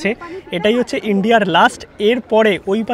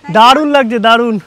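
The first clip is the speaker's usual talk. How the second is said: echo; 5 semitones higher, 4 dB louder, slower than usual. Real, not acted. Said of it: "তোমরা শুনতে পেলে নাকি?".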